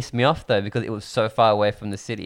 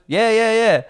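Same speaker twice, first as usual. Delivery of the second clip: higher, eager yes-man voice; imitating Tofi; 9 semitones higher than usual. Friend mocking Tofi's careless yes, higher and eager. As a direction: mimic the friend's breezy yes. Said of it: "What did Tofi respond with?".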